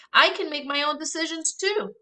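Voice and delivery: mock her line back at sister; defiant echo. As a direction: brother echoing Rapunzel's words defiantly. Brother echoes Rapunzel.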